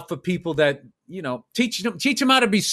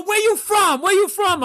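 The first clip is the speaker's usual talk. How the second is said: put-on high, loud repeated demand in an Asian accent; shouted imitation of a heavy Asian accent; 12 semitones higher, 6 dB louder than usual. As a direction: yell the question as an Asian-accented cabbie. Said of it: "but a heavy accent".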